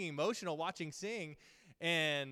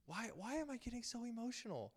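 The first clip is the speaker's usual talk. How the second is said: puzzled self-questioning; 9 semitones higher, 3 dB quieter than usual. Retold or imitated. Retelling puzzled question to himself.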